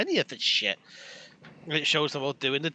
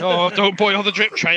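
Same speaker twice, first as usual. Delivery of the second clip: laughing; 4 semitones higher, 6 dB louder than usual. Real, not acted. Joking about leaked episode.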